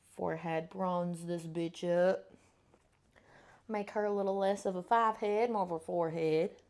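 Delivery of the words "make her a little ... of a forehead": a slight Southern accent slipping in; lightly Southern-tinged vowels. Real, not acted. Vlogger joking about her forehead, hint of Southern accent. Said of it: "where the southern accent keeps coming from".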